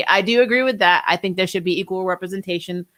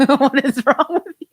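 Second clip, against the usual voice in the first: laughing disbelief, pitched up; 6 semitones higher than usual. Real, not acted. Streamer laughing back at the chat joke. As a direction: laugh it out in mock outrage.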